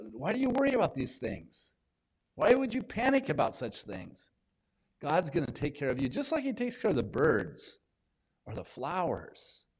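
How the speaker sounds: a light hint of Jesus asking softly why you worry; voicing Jesus. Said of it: "otherworldly when he says".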